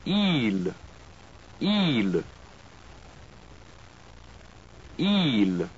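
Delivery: "Île" as a pure eel sound, clear French l; French pronunciation. Shown as a demonstration. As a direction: model "Île" for repetition. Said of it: "followed by the French word twice".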